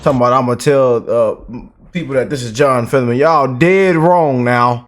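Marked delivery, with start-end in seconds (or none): 3.2-4.9 slow emphatic dismissal. Real, not acted. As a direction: drag it out, flat certainty. Rebutting critics of Fetterman.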